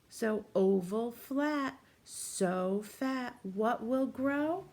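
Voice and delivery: put-on slow, sing-song rhyme for a child; riddle read-aloud. A narrator's reading. Teacher reads the rhyme to a young child, slow sing-song. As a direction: chant the riddle slowly to a little listener.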